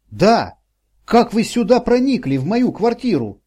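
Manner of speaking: put-on a distraught old woman half-crying and accusing; sobbing old woman. A narrator's reading. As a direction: push it out through sobs, distraught. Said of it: "перебивались судорожными всхлипываниями".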